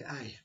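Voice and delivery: "Aye." said as a short northern-dialect eye, meaning yes. Shown as a demonstration. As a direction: say "Aye." like a local answering yes. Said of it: "for the word yes, we would say".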